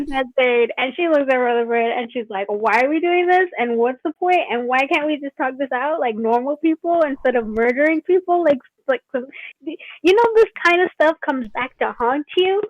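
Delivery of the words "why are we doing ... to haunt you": mildly frantic run of questions; plead, getting worked up and rising in pitch; getting hysterical. Acted. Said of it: "You're getting hysterical".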